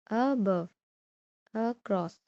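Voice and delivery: "above" and "across" weighted on the second syllable; light start, weight on the roots of "above", "across"; stress on the root. Shown as a demonstration. Teacher gives weak-prefix examples, "above", "across" stressed on the root. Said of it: "the stress is on the root".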